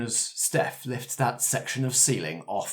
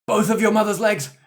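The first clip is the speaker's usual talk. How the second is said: climbing higher to a shocked peak; melodramatic reveal; 8 semitones higher, 4 dB louder than usual. Acted. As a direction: build to a soap-opera shock. Dramatic diagnosis reveal.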